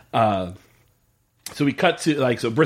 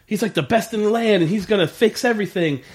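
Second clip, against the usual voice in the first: imitated little kid; 5 semitones higher than usual. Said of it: "The little kid's just like".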